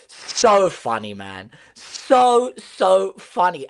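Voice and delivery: chuckling through the words; can't stop laughing at them; amused, drawn-out chuckle. Real, not acted. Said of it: "I cannot help but laugh".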